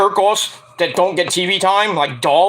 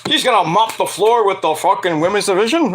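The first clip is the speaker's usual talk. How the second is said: cheering fans; 3 semitones higher than usual. Retold or imitated. Old school fans greeting Natalya, cheering. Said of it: "old school NXT people, like".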